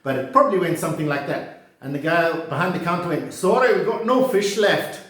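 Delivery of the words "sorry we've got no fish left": higher-pitched, amateur Glaswegian; mock Scottish accent. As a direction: play a Glasgow chippy counterman. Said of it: "my brilliant Scottish accent".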